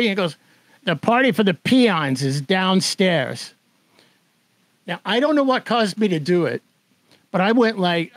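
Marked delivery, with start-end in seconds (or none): 0.8-3.5 slow, lightly mimicked dismissal; put-on haughty gatekeeper, drawn out; Jerry Pournelle. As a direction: imitate a tipsy man pointedly turning guests away. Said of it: "he talks like this kind of".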